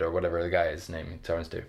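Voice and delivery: ordinary talk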